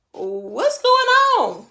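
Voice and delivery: high, slow, bewildered laughing question; baffled and half laughing. Retold or imitated. Retold confusion floating up.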